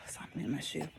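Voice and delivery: breathy whispered aside to herself. Real, not acted. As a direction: drop to a near whisper, distracted. Aside muttered while walking.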